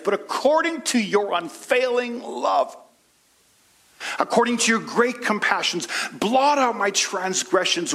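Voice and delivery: preacher voicing David's heartfelt prayer. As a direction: cry out to God for mercy. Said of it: "he said".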